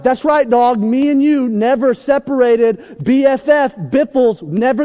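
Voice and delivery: high, loud bro bravado; hyped best buddy. Retold or imitated. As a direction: imitate a best friend swearing loyalty. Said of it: "and they're like".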